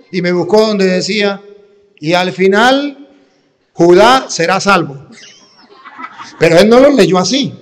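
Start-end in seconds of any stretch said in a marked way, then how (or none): 2.0-5.1 slow reading, "Judá" said as if Judas; misreading uncle. Retold or imitated. Uncle proving his point from the Bible, slow confident misreading. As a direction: read "Judá será salvo" slowly, sure of it. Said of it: "Ahí viene cómo me lo leyó mi tío".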